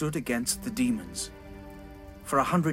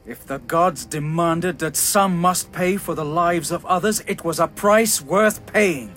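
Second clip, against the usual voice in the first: rising anger; 4 semitones higher, 6 dB louder than usual. Acted. King builds to anger.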